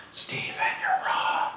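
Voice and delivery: breathy whisper close to his ear; whispering to coworker while cradling him. Retold or imitated. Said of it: "Whispering to him".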